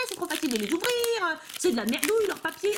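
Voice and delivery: fast, whiny mocking of complaining collectors; mock griping players. Players griping that packs open too easily, fast mock whine. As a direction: rattle off the moan like a grumpy fan. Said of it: "tout le monde gueulait".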